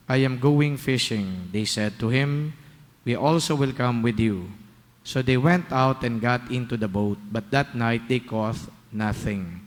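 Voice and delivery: solemn, measured scripture proclamation; Gospel reading. Acted. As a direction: read it like a priest at Mass.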